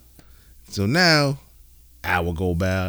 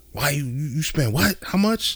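higher-pitched mock disapproving wife; wife hating; 5 semitones higher than usual. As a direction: imitate a wife questioning the spending, voice climbing. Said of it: "At first, she was hating".

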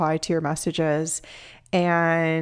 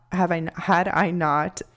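stumbling and restarting, slowed by emotion; emotional stutter. Real, not acted. Podcaster owning past struggles to listeners, emotional stutter. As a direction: trip over the words, getting emotional. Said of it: "I'm stuttering because of that".

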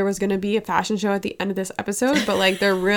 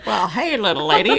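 put-on old-timey guy. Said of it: "that old-timey guy at the bar".

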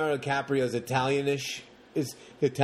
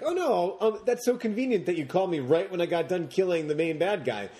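mock heroine; 4 semitones higher than usual. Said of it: "And she's like".

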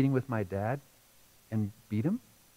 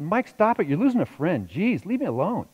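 put-on raised, higher snapping at a pestering kid; annoyed big brother; 4 semitones higher, 4 dB louder than usual. Teen brother shoos pestering little brother away, annoyed and raised. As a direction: tell the little one off, sharp and loud.

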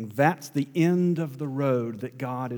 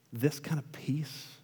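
soft whisper, leaning in; 7 dB quieter than usual. Real, not acted. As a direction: whisper as if sharing a secret. Sermon close, hushed words.

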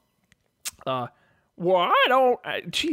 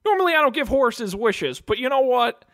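genie to horse; 3 semitones higher than usual. Acted. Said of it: "he just turns to Vankar".

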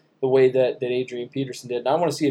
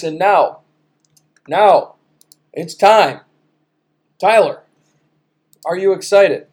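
loud, higher, with suspenseful pauses; hyped segment build-up; 5 semitones higher, 7 dB louder, slower than usual. Real, not acted. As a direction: announce it like a big reveal. Hyping up the top ten segment.

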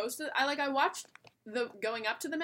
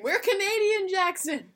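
loud, high-pitched protest; raised-voice mock outrage; mock indignant; 8 semitones higher, 6 dB louder, slower than usual. Real, not acted. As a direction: burst out in playful correction. Mock protest at being called American.

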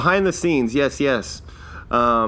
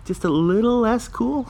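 higher, half-shouted punchline; mock exclaim; 9 semitones higher than usual. Real, not acted. Joking to listeners about being Canadian, mock shout.

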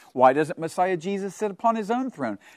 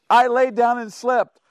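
word for you; 5 semitones higher, 4 dB louder than usual. Real, not acted. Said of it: "I've got a word for you".

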